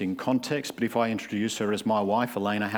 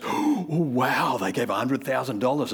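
gasping awe. Retold or imitated. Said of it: "everyone goes".

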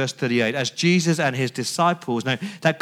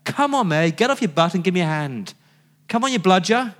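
mock muttering; 4 semitones higher, faster than usual. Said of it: "she's muttering under her breath".

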